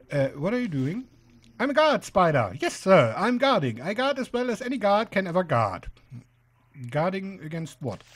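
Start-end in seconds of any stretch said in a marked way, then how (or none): 1.6-5.9 louder, lightly voiced guard spider; eager guard spider. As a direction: report proudly for guard duty. Plays guard spider in game.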